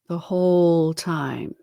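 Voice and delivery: slow ghostly whisper; spectral whisper. A narrator's reading. Ghost whispers its answer to Scrooge. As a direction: hush it eerily.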